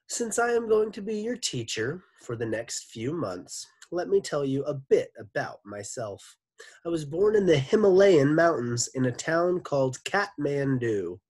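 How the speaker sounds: Mister Gorf voice. Acted. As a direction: play the charming new teacher. Mr Gorf character voice.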